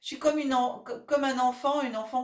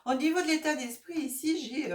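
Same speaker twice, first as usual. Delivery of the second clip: coughing fit; 5 semitones higher than usual. Real, not acted. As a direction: voice strained between coughs. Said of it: "je tousse encore". (voix gênée par la toux)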